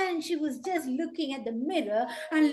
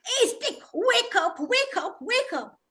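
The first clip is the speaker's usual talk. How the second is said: high, urgent calling; raised-voice wake-up cry; waking someone; 8 semitones higher, 4 dB louder than usual. Acted. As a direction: rouse a sleeper with repeated calls. Crow wakes the sleeping stick.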